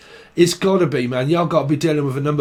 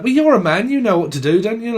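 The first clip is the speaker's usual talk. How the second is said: mock nagging voice; 7 semitones higher, 3 dB louder than usual. Mocking voice of someone nagging.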